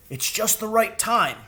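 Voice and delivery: high crow voice; eager crow, pleased; high bird voice. Acted.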